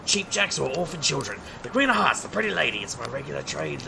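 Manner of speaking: lightly played street hustler; card sharp patter. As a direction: patter at the crowd to distract. Carnival barker card patter.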